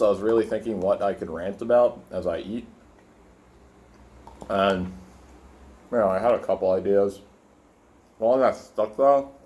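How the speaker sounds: talking with food in mouth; mouth full. Real, not acted. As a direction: say it around a bite. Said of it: "I hate talking with my mouth full".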